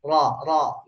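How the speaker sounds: "Ro" dengan lidah bergetar. Shown as a demonstration. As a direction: getarkan ujung lidah pada "Ro". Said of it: "untuk lidahnya bergetar". (contoh "ro" bergetar)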